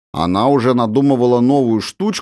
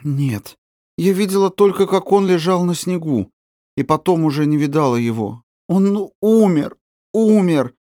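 high, rising toward tears; girl near sobbing over her grandfather; grief welling up; 7 semitones higher than usual. Acted. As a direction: cry out that he is dead. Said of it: "горько заплакала".

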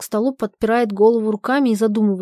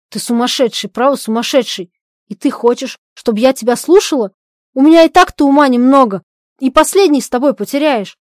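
scolding; 3 semitones higher, 6 dB louder than usual. Acted. Polina scolds Zhadov.

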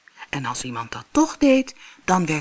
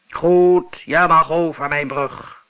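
grumbling monster; 6 dB louder, slower than usual. Acted. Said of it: "bromde hij".

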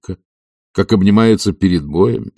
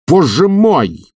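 slow, pained cry, much higher and louder; near shout; 9 semitones higher, 5 dB louder, much slower than usual. A narrator's reading. Stolz learns the truth about Ilya, anguished near shout. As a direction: cry out as from sudden pain. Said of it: "почти закричал он".

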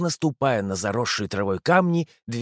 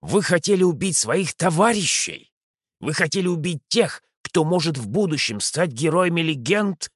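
scolding; 5 semitones higher than usual. Acted. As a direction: scold the soldiers sharply. Commander scolds his soldiers.

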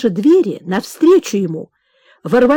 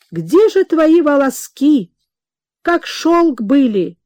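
tender lament; 5 semitones higher, slower than usual. Acted. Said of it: "приговаривала она".

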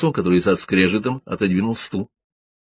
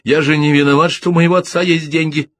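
higher and louder plaintive cry; plaintive exclamation; 8 semitones higher, 5 dB louder than usual. A narrator's reading. Winfield protests to the detectives, plaintive higher cry. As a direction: protest like a wronged rich boy. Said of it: "жалобно воскликнул Уинфилд".

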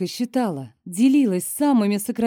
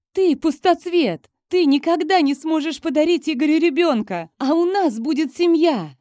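shouting on; 8 semitones higher, 4 dB louder than usual. A narrator's reading. Rival keeps shouting insults.

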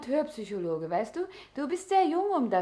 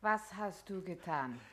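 hushed horror; 4 semitones lower, 10 dB quieter than usual. Acted. Woman asks horrified.

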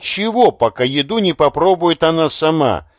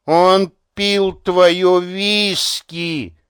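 put-on slow, higher hissed old woman's voice; hissing; 5 semitones higher, much slower than usual. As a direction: hiss it out slowly, full of hatred. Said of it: "прошипела она".

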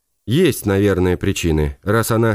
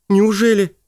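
high astonished gasp of a question; 10 semitones higher than usual. A narrator's reading. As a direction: sound truly amazed. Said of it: "поразилась Инка".

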